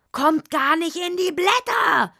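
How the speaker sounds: high, loud furious shout; shouted back. Acted. The hedgehog shouts back at the mole during their quarrel. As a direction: yell it right back at him. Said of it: "schrie der Igel zurück".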